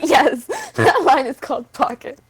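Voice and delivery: laughing through the words; giggling as she answers; words broken by a laugh. Real, not acted.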